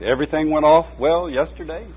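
the pastor's lightly voiced question, rising. A narrator's reading. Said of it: "the pastor asked".

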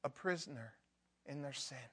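gentle intercession for a sinner; compassionate prayer. Pretend. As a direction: pray for them with a breaking heart. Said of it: "you look at a sinner and you say".

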